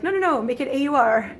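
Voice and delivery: mock-insist on the rule; mock rule-makers insisting. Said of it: "they were like".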